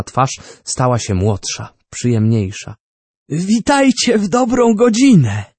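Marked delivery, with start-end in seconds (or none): 3.3-5.4 put-on high, ceremonious welcome as the old inventor; solemn greeting. A narrator's reading. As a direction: greet him with pomp. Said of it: "rzekł uroczyście".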